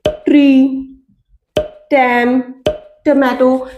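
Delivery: each word starts on retroflex T; slow, separate example words with hard T; hard T sound. Shown as a demonstration. Teacher giving English-word examples, hard T. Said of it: "टी को ट के sound".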